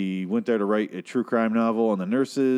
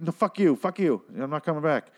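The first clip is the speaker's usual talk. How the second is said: mock angry retort; 6 semitones higher than usual. Husband snapping at wife.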